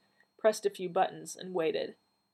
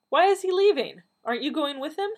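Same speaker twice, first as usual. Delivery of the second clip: high, urgent questions; agitated questioning; 10 semitones higher, 8 dB louder than usual. A narrator's reading. Gramps questions Donna as the Doctor leaves, agitated. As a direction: raise the pitch in dismayed disbelief. Upset grandfather questions sudden departure.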